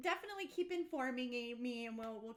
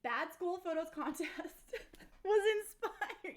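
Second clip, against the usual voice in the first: suppressing laughter; 3 semitones higher, 3 dB louder than usual. Real, not acted. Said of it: "trying not to laugh".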